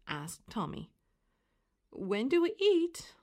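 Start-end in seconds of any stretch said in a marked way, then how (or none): 1.9-3.2 high, louder eager question; asking together. A narrator's reading. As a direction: pipe up like hungry children. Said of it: "they asked together".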